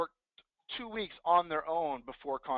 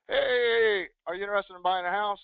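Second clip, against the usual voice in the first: wrong way; 4 semitones higher, 6 dB louder than usual. Shown as a demonstration. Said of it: "Don't say".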